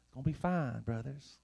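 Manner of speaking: put-on a touch of Texas accent. Preacher reprising easy-comfort promise to brothers, light Texas accent. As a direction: lightly mimic a reassuring Texan. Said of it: "like, a Texas accent when I do that".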